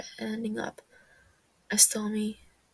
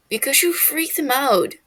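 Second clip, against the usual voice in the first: hiss; 4 semitones higher, 10 dB louder than usual. Acted. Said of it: "Techno hisses".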